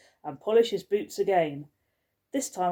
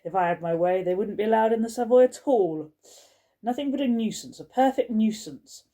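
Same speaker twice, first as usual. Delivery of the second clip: fulminating rant; 4 dB louder than usual. Acted. Skullface storming down the corridor, fulminating about spoilt children. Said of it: "fulminating as she went".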